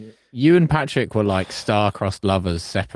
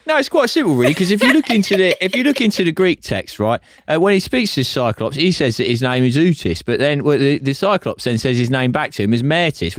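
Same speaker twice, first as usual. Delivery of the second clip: mock earnest explainer; 4 semitones higher than usual. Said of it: "and you're like".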